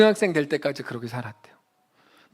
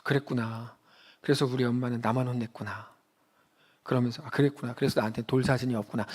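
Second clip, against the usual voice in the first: quiet sad realization; 6 semitones lower, 6 dB quieter than usual. Retold or imitated. Child realizing she was adopted.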